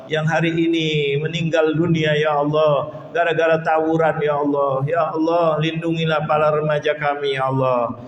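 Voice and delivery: earnest, chanting supplication with ya Allah refrains; a heartfelt prayer intoned for the congregation; closing prayer. Real, not acted.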